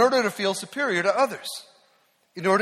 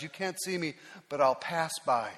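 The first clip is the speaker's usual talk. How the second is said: voice of God; 7 dB quieter than usual. Acted. God speaking to Moses.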